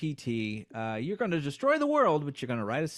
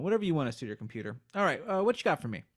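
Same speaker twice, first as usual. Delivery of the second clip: computer voice; 3 semitones higher, much faster than usual. Acted. Computer voice replies.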